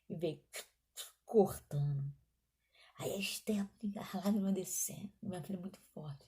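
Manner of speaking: hushed whisper. Real, not acted. Tense hospital scene, hushed telling.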